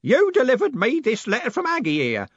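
put-on loud, high roaring old man; old merchant roaring at the postman. A narrator's reading. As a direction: roar out the name proudly. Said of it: "the man roared".

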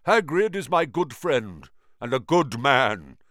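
loud, strange ancient spider; old spider voice. A narrator's reading. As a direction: tell it like an old giant spider. Aragog voiced.

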